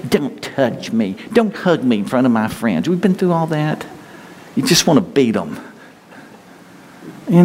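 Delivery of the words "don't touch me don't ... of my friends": mock a sullen teen shrugging off a hug; sulky teenager. Preacher imitating a teenager refusing a parent's hug, mock sulky. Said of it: "like rebellious teenagers".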